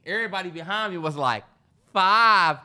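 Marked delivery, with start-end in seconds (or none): 1.9-2.6 mock crowd counting. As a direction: shout the count like the crowd behind you. Crowd counting up behind him.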